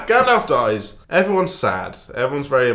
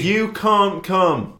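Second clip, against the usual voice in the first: slow mock Gandalf; 7 semitones higher, much slower than usual.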